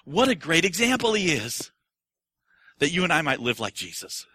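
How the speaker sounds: lightly voiced casual believer; a hint of a breezy churchgoer; mock pious talk. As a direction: shrug it off like a nice story. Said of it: "people do, to say".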